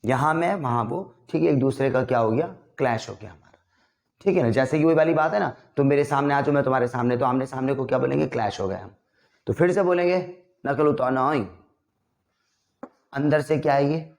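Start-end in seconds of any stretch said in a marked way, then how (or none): none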